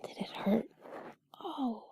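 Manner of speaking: ordinary talk, nothing marked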